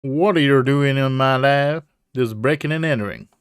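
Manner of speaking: put-on southern accent. Professor confronting intruders in the lab, southern accent. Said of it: "I don't know why it's a southern accent".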